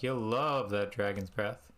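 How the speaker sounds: a light mock Jamaican accent, slow and drawn out. Imitating Bruno pushing dragon's breath, light Jamaican accent. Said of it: "I made Bruno Jamaican".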